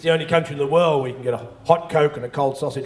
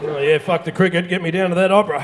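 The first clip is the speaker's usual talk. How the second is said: mock enthusiasm; 3 semitones higher, 6 dB louder than usual. Mock Aussie bloke cheering opera.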